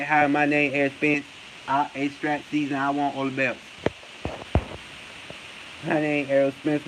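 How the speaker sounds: low, subdued self-introduction in mockery; Errol Spence. Mocking a boxer introducing himself to high school, low impression. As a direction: imitate him shyly introducing himself, low and even. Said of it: "He talk like he introducing himself to the high school".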